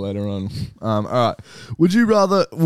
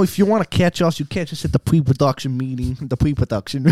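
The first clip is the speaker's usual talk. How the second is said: put-on a light kid's voice; a mild child voice on pre-production; childlike voice. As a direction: say it like a little child. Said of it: "Why would I say it like a child?".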